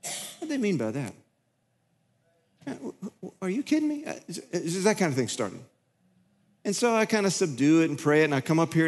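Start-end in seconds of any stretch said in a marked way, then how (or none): 0.0-1.1 inner grumble. Retold or imitated. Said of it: "on the inside, it started a churning". 2.7-5.6 high, hushed are you kidding me; spluttering inner outrage, pitched up; a high, breathless whisper of disbelief; indignant inner disbelief. Retold or imitated. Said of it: "on the inside, it started a churning".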